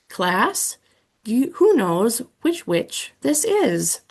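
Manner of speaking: odd, eerie quiz voice; skeleton voice. Acted. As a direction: quiz the class like a spooky skeleton. Skeleton quizzes the class.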